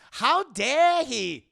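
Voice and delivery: slow, loud, high mock outrage in a Scottish burr; Shrek-like Scottish accent. Indy offended by the butler, hammed-up Scottish accent. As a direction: roar it like an affronted Scottish lord. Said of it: "he sounds like Shrek".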